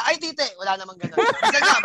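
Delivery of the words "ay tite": lightly voiced startled yelp, a bit higher; playful mock exclamation; mock startled man. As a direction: pretend a man blurting in surprise. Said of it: "may lalaki bang narinig na".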